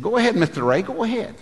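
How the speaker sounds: high-pitched lisped urging; lisping instructor. Retold or imitated. Instructor sending Mister Ray into the fight, lisping. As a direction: imitate a lisping coach, S turned to TH in "Mister". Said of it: "speaks with a little bit of a lisp".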